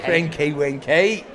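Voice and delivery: slow Scottish "crinky winky", rolled and drawn; "crinky winky" in a drawn-out Scottish accent. Shown as a demonstration. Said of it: "It's actually Scottish".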